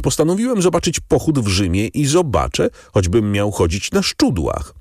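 a lightly voiced young man digging in his heels; determined young man. A narrator's reading.

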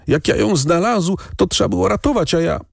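put-on a boy's high, halting, embarrassed stutter; ashamed stammer. A narrator's reading. Shamed boy stammers his excuse to the lady. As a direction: trip over the words in shame. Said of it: "jąkał się zawstydzony".

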